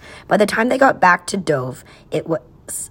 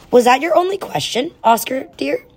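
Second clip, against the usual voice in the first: a hint of a sugary mother, pitched up; lightly voiced sweet mother; 9 semitones higher than usual. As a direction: sweetly check on the boy. Watchful mother on the line.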